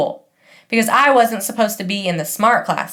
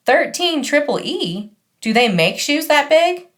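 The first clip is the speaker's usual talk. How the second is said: smirking salesgirl; 6 semitones higher than usual. Retold or imitated. Shoe girl mocks Max's big feet, higher and smirking. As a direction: sneer at the huge shoe size. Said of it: "she's got a little smirk and she goes".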